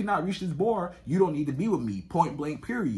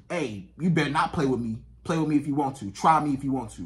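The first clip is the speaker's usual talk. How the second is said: lower, controlled warning; calm but assertive; 4 semitones lower than usual. Retold or imitated. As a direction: imitate her composed, firm warning. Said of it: "she was still assertive".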